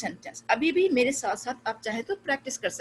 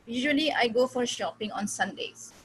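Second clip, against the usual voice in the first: slow example sentence; much slower than usual. Shown as a demonstration. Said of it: "जैसे एक long sentence है".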